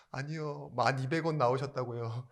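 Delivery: mildly flustered nurse correcting. Retold or imitated. Nurse correcting a patient's mishearing, mildly flustered. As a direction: lightly act out an embarrassed correction. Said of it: "간호사가 너무 당황하면서".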